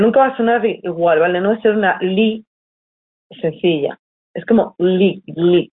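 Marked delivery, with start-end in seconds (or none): 4.8-5.7 "li" said with a light Italian gli, tongue flat on the palate; the "li" here is really a soft "gli", not a plain L; soft gli sound. Shown as a demonstration. Teacher demonstrating the Italian gli to students, a soft palatal sound. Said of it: "Como si fu-, dijerais gli, pero sin que se suene tanto".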